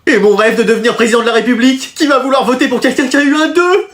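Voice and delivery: dramatic despair. Acted. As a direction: wail over a ruined future. Pupil despairs over bad mark.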